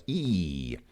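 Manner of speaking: a long pure "ee" for E; demonstrated "ee" vowel. Shown as a demonstration. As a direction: sound out E as a held "ee" vowel. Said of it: "they only pronounce it like".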